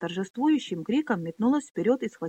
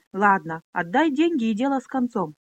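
condescending; 3 semitones higher, 4 dB louder than usual. Acted. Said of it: "снисходительно промолвил Бенис".

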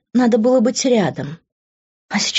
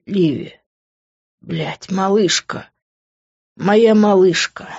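tearful; slower than usual. A narrator's reading. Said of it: "Глаза Гранда наполнились слезами".

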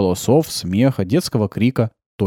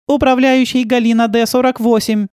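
high, louder indignant correction; 12 semitones higher, 4 dB louder than usual. A narrator's reading. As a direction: correct him with offence. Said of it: "возмутилась Яна". (Яна возмущённо поправляет)

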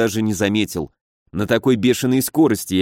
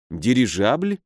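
puzzled question; slower than usual. A narrator's reading. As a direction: echo the word doubtfully, pitch rising at the end. Hero queries the baron's word. (недоумённый вопрос с повышением в конце)

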